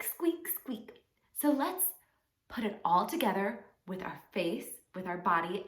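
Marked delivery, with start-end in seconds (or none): 0.0-0.9 small high squeaks; mouse squeak. Shown as a demonstration. Showing children a mouse's sound, tiny squeaks. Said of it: "A mouse goes squeak".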